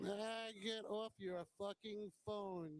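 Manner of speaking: high, drawn-out ribbing; heckling call-out. Real, not acted. Calling out someone on phone.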